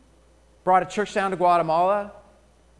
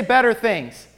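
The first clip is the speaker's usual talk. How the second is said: call and response; 4 semitones higher, 6 dB louder than usual. Shown as a demonstration. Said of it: "Everybody say".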